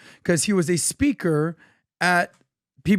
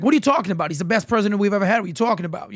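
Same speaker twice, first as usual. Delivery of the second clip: put-on quick-fire retort in a Boston accent; Boston-accented buddy arguing back; thick Boston accent; much faster than usual. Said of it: "in his thick Boston accent".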